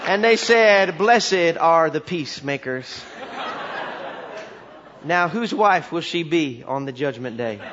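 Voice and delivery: lightly voiced country preacher, deadpan; solemn folksy pronouncements, settling toward the punchline; backwoods preacher storytelling. Country preacher finishing his jumbled story, mock-solemn backwoods voice. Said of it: "he starts to tell this story".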